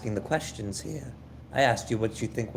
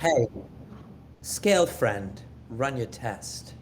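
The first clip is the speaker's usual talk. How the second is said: slow friendly call; slower than usual. Acted. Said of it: "I say".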